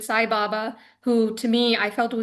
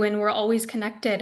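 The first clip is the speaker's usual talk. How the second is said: tender reassurance; 2 semitones lower than usual. Retold or imitated. Guru comforting a devotee in a hug, gently reassuring. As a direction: quote him gently, as a calm statement. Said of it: "rubbed my back and said".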